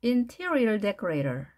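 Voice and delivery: Interior stressed, drawn out slowly. Shown as a demonstration. Teacher drilling word stress, slow. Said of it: "액센트가 어디에 있는지가".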